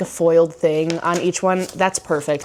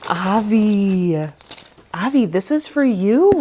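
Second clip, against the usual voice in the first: excited; 3 semitones higher, slower than usual. Real, not acted. Shows the dog its gift.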